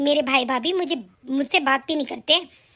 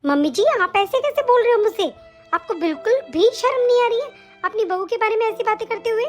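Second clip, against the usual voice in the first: indignant outburst; 5 semitones higher than usual. Acted. Bahu confronts mother-in-law.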